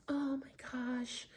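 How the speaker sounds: slow, whispered disbelief; hushed dismay. Retold or imitated. Neighbour looking at his damaged car, hushed dismay. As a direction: imitate a stunned murmur under the breath.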